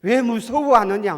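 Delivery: loud, high-pitched preacher's reproach; forceful rebuke. Acted. Jesus questions his frightened disciples, in a forceful rebuke. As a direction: hurl the question out as a scolding. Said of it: "이렇게 책망을 하십니다".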